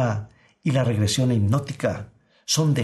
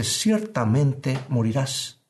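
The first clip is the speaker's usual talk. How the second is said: voice of God; slower than usual. Acted. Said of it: "la voz de Dios ... Dice".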